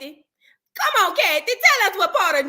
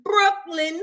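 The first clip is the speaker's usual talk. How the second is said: whispered "Brooklyn"; 4 semitones higher than usual. Pretend. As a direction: breathe the word. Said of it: "whispered name".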